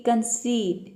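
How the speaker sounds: कंसीड with a drawn-out stressed ee; stressed long ee. Shown as a demonstration. Teacher models the stressed letter e for students, कंसीड with long ee. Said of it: "जोर देके pronounce करना है".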